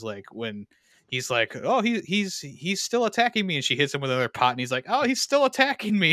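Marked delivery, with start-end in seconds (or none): 1.6-3.6 high-pitched retold cry of alarm; mock alarm. Friend retelling the funny fake fight scene, mock alarm. Acting out staged attacker's victim. 4.9-6.1 much higher, louder mock cry for help; hammed-up panic, voice pitched way up; heightened mock alarm. Friend escalating the retold joke about another pot, heightened mock alarm.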